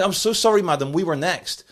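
mock posh politeness. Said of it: "your pretend posh accent there".

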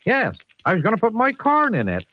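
high West Country yokel; an eager Somerset farmer answering. Acted. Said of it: "I think he's from the Southwest".

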